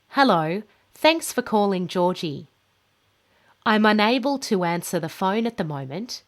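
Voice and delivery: friendly voicemail greeting with lively tune; rising and falling tune. Shown as a demonstration. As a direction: clear ups and downs of pitch. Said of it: "just practice listening to the up and down of my voice".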